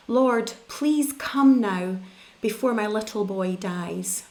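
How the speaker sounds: a mild, understated desperate plea. Acted. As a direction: read it as a father begging for his son. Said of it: "You see, he's desperate".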